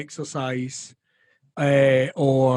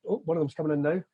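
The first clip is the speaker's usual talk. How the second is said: usual speaking voice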